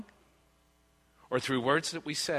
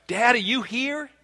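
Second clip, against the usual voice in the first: loud, high call across the house; crying out; 10 semitones higher, 5 dB louder than usual. Retold or imitated. Child calls dad to the phone, crying out. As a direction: imitate a child yelling out for dad. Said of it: "this voice cries out".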